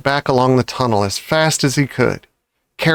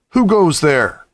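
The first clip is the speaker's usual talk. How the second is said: deep voice; 4 semitones higher than usual. Acted. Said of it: "a deep voice above their heads said".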